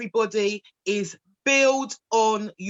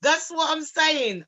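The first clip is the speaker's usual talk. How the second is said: emphatic agreement; 6 semitones higher than usual. Real, not acted.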